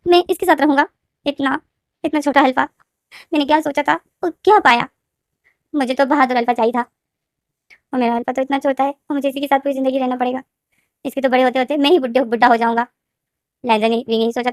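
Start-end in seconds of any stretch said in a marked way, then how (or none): 0.1-0.9 whisper. Acted. Repeat dropped to whisper. 1.2-12.9 lightly raised, sulky inner complaint; disappointed Wing. Acted. Wing's inner grumbling voiced.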